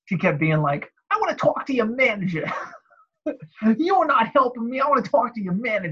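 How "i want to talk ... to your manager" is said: put-on accent from Staten Island. Retelling what a Staten Island lady kept saying on the phone, in thick Staten Island accent. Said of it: "like thick. New York Staten Island accent".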